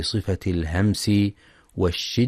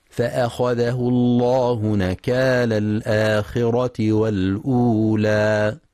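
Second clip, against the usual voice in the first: slow, drawn-out tajweed chanting; measured melodic Quran recitation; 2 semitones higher, slower than usual. Shown as a demonstration. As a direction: recite with full ghunna and long vowels. Recited verse.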